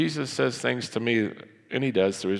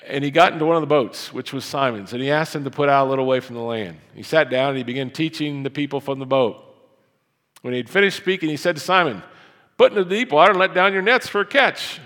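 raised, fast preaching read; scripture reading; 5 semitones higher, 6 dB louder, faster than usual. Acted. Pastor reading Luke to the congregation, raised and fast. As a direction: proclaim the passage to the church.

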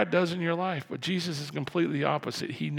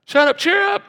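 high, loud mock yell; both halves in a comic high shout; crowd's flip-flop; 11 dB louder than usual. Crowd switching sides, high loud mock shout. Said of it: "the little change over there".

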